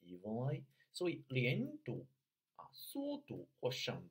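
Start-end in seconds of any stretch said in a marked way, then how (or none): 0.0-0.6 "evenly" stressed on its first syllable, rising at the end; stressed word. Shown as a demonstration. Coach showing the third point, stressed word. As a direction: lean on the "e" of "evenly" and let it rise. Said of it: "第三个小点呢要重读".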